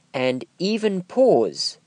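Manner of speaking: "even pause" slowed right down, the words held apart; pausing between words. Shown as a demonstration. Coach showing voiceover learners how to pause, slow and spaced. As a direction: draw out EVEN PAUSE slowly. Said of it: "You can even pause between words".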